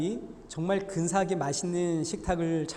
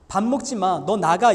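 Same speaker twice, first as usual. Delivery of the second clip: angry parent shout; 7 dB louder than usual. Retold or imitated. Angry parent's words again.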